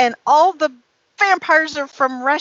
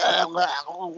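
mock drooling; 5 semitones lower, 6 dB quieter than usual. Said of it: "sit there and drool".

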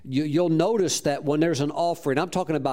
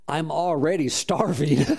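laughing. Real, not acted. Laughs at his own retort.

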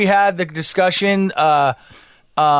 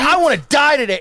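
higher, unhinged; mock raving; 10 semitones higher than usual. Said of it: "he's like".

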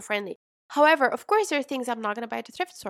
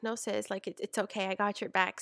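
reassuring; 7 dB quieter than usual. Retold or imitated. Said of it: "And I was like".

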